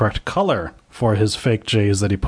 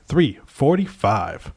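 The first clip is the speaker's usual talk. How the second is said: bright event host. Acted. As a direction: show host welcome with a ring-announcer swing. Host opens the show.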